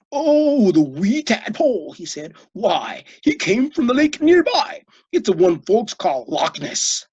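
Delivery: a touch of a Scots brogue; a hint of Scottish uncle. A narrator's reading. Uncle explaining the tadpole, lightly Scottish.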